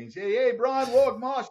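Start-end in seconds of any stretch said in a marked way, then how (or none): 0.2-0.9 put-on high, excited Aussie greeting in an Australian accent. Phoning an American friend late at night, high Australian accent. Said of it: "I don't know what language he's speaking". 0.9-1.5 put-on Warwick Marsh said high with a broad Australian accent, like Wok Mak. Introducing himself on the phone, Australian accent. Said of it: "I don't know what language he's speaking".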